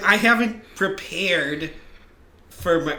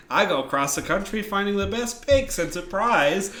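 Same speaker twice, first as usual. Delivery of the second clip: lightly hammed-up show-host patter; 3 semitones higher than usual. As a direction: pitch the show with a touch of host swagger. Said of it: "I will come in and I will say".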